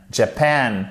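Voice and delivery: Japan with the second syllable stressed. Shown as a demonstration. Teacher showing learners where the stress falls, Japan stressed on its second syllable. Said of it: "Accent tonique sur la deuxième syllabe".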